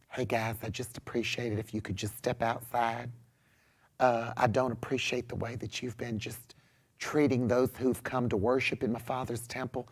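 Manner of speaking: soft, low, timid southern voice; feminine dude. Acted. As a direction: ask very meekly and quietly, in a southern accent. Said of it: "feminine dude".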